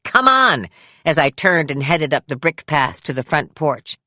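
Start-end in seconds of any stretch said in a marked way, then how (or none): 0.0-0.7 eager call to a friend. A narrator's reading. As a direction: call out, pitched well higher and louder. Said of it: "and called".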